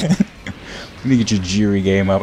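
slow, chuckling repeat; amused mock quote; laughing through it.

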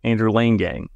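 Lane Gang said with a long A; corrected name pronunciation. Shown as a demonstration. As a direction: give Lane in Andrew Lane Gang the vowel of "rain". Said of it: "the pronunciation".

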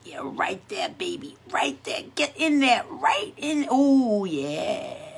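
hushed, suggestive whisper of pleasure; mock sultry whisper. Teasing viewers with a sultry whispered moan. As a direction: whisper like a phone listener would misread it. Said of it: "I'm like".

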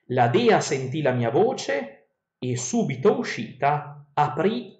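slow, measured reading of ancient verse; epic verse reading. Acted. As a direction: read the verses like a storyteller. Reads Odyssey verses aloud.

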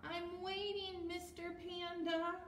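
eager high little penguin. Acted. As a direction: voice the patient penguin up high and bright. Penguin voice again.

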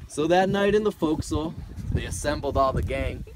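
sea ballad read with a lilt; poem recitation. Acted. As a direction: recite it like an old sailor's ballad.

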